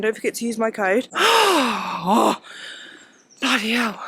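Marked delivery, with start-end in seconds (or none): 1.1-2.0 breathless gasp. Real, not acted. Breathless climbing a hill. 2.1-4.0 winded from the hill; gasping out of breath. Real, not acted. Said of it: "Speaking and walking at the same time, up a hill".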